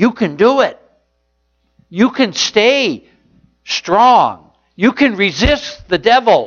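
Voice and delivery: put-on rousing, encouraging yell. Voicing a father coaching from up there, retelling a yell of encouragement. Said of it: "He's yelling".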